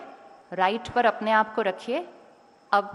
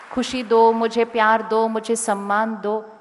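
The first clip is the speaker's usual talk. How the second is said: demanding beggar; 5 dB louder than usual. Retold or imitated. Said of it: "ऐसे खड़े होते हैं सबके सामने".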